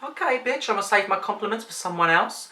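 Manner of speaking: mock offended snark; sassy retort. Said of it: "And I was like".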